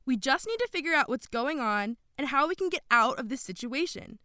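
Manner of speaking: high, loud shout to break up a quarrel; Jessica shouting. A narrator's reading. Girl telling the arguing group to stop, shouting. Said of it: "Jessica shouted".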